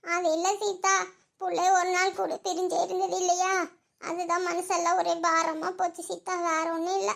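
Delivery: mild sobbing under the words; tearful. Acted. Heavy-hearted mother confiding in Seetha about her daughter leaving, tearful. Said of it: "அழுகாதீங்கக்கா".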